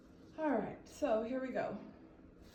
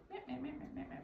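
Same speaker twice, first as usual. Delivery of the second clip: mock yapping; 4 semitones higher, 5 dB quieter, much faster than usual. Shown as a demonstration. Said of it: "if I said it like that".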